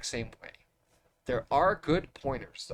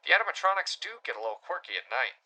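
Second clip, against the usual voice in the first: put-on thin, tinny old phone line; over an old telephone; 2 semitones higher, faster than usual. Shown as a demonstration. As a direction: read it like a crackly phone call. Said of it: "all right, I'll do it".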